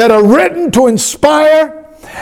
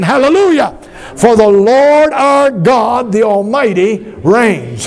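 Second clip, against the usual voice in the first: call and response. Shown as a demonstration. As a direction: lead the congregation, stretching out Lord. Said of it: "Can you say that with me again?".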